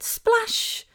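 high-pitched motherese splash; encouraging echo. Retold or imitated. Mum echoing her son's new word, encouraging. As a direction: cheer the word back to a toddler. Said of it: "So I said".

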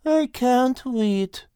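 slow, drowsy and dry; sleepy sarcasm. Acted. Al answering with his eyes closed, slow and drowsy. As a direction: mumble it half asleep. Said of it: "Al replied with his eyes closed".

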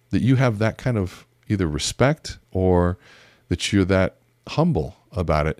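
ordinary delivery

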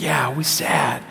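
put-on slow, drawn-out toddler agreement; sad little son. Dad mimics son sharing sadness with him, sad toddler voice. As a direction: imitate a pouting child, stretching each word. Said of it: "And he's like".

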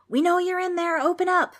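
loud, high bellow through a door; demanding shout. A narrator's reading. Demons bang on the front door, shouting demands. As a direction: holler to be let in. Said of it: "demanding to be let in".

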